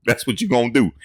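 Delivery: high, amused mock coach voice; laughing mock quote; imitating a coach. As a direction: mimic the coach's line while cracking up. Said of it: "He said".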